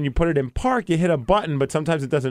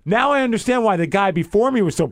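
mildly heated, retold indignation; retold heated complaint; 3 semitones higher than usual. Customer confronting the rental clerk, getting heated. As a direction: replay the argument with some heat. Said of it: "now I'm getting more heated".

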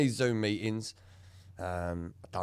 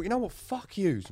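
retold angry outburst; 10 semitones higher than usual. Retelling telling off his colleagues.

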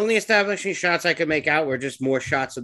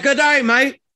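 mocking, higher and louder Australian accent; bad Australian accent; 8 semitones higher, 5 dB louder, slower than usual. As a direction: ham up a cheesy Australian accent. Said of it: "do an Australian accent".

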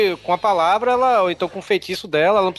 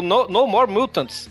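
slow dramatic quote; much slower than usual. Retold or imitated. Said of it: "Ela falou".

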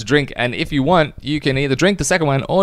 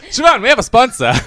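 ad read voice; 11 semitones higher, 6 dB louder than usual. Acted. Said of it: "Good ad read".

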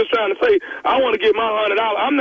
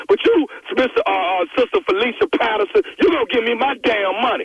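a hammed-up churchgoer getting worked up; mock indignant caller; 3 semitones higher than usual. Prank caller baiting the church secretary, hammed-up indignant demand. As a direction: push the fake grievance, cocky and demanding.

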